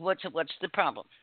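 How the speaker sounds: normal talking voice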